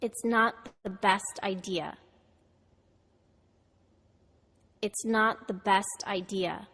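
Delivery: "It's not the best idea" with not, best, idea stressed; stress on content words. Shown as a demonstration. Teacher models for students to repeat, content words stressed. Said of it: "Americans stress words in sentences that are important".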